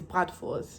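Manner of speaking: BRATWURST the German way, soft R, "vorst" ending; German pronunciation. Shown as a demonstration. Answering the person who corrected them, German pronunciation. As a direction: say BRATWURST matter-of-factly as Germans do. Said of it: "the German actual way of saying it".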